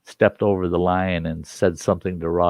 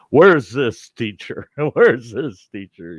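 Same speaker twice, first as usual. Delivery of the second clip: yelling dad; 3 semitones higher, slower than usual. Retold or imitated. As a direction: imitate the furious police chief storming in. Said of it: "he's yelling".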